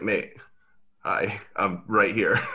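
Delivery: slow, amused callout through a laugh; laughing retort. Retold or imitated. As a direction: laugh it off as you point out you're standing right there. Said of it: "And I was like".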